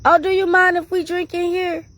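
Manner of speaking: high breezy ask; imitating her friend. Friend casually asking the church-lady driver, high breezy voice. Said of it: "she just busts out and says".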